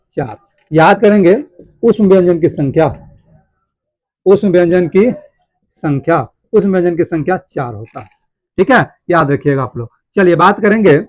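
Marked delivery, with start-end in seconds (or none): 4.3-6.3 very slow, long gap before the last word; slow dictation. Shown as a demonstration. Teacher dictating key points to students, very slow and spaced. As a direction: dictate it at writing speed.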